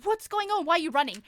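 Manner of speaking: mock alarmed mother; imitating a panicked mum. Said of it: "My mum's standing there panicked".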